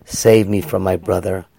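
closing prayer to the congregation; quiet prayer. Real, not acted. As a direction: pray it softly, from the heart. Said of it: "we pray the same prayer".

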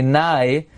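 "Nai" said with an ai vowel; Sephardi pronunciation. Shown as a demonstration. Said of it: "many Sephardim pronounce it".

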